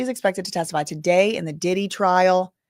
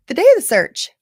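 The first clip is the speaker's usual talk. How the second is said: yawning; 9 semitones higher, 9 dB louder than usual. Real, not acted. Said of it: "I don't know why I'm yawning so much".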